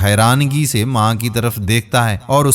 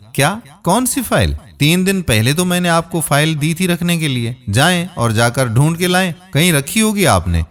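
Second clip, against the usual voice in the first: shocked disbelief, pitch jumping higher; a startled son who can't believe his ears; surprised; 4 semitones higher, faster than usual. Acted. Son to mother about the lost file, surprised and higher. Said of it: "فاروق حیرانگی سے کہنے لگا".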